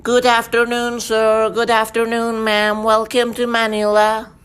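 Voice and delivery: a polite Filipino welcome; a bright Filipino accent. Shown as a demonstration.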